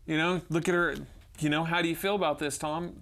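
lightly voiced scolding principal. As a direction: play the principal demanding an answer. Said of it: "the principal's like".

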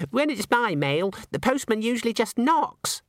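high, silly dancer's voice; giggly ballerina. A narrator's reading. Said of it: "and giggled".

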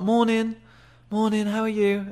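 high-pitched mock greeting; unassertive wrong tone. Shown as a demonstration. Guys greeting women the wrong way, high and unassertive. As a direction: mimic a guy greeting too high, lifting his voice.

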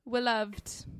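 "beloved" starting with a W sound; playful mispronunciation. Pretend. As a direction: say "beloved" as "weloved". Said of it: "Two of those weren't words".

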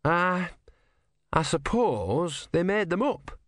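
put-on high, earnest young novice; young Brutha voice. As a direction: ask it wide-eyed and high. Brutha speaks.

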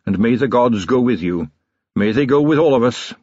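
a hint of a proud riverman; respectful boatman. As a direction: salute the commander with respect. Sillitoe salutes Vimes.

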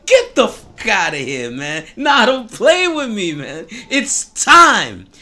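loud, high, overjoyed ranting; excited Rafiki. Retold or imitated. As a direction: burst out with joy you can't hold in. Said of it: "can't refrain from expressing that".

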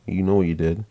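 understated, even retelling of a calm reply. Retold or imitated. Grandpa answering his girlfriend, calm tone. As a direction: keep it calm and level. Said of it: "In just a calm tone".

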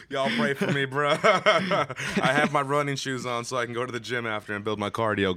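laughing hard while talking. Real, not acted. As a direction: laugh through the words, winded. Laughing at own breathlessness.

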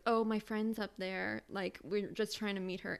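lightly voiced whiny excuse, slowed; a half-hearted mock of a silly girl; mocking goose girl. Retelling the girl's excuse at the concert, mild mocking voice. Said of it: "she tried making this goose like".

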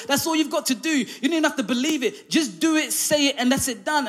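high, chuckling mock plea; laughing pleading. Soldiers pleading, retold with laughter.

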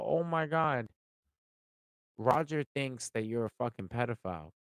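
loud, high, hammed-up gasping gossip; mock shocked announcement; mock alarm. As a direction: play the scandalised gossip breaking the news. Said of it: "if I sit here and go".

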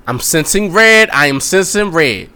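slow, drawn-out mock intoning; acted slow sensing. Woman senses what her man plans, slow mock intoning. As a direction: stretch it out like a mock psychic.

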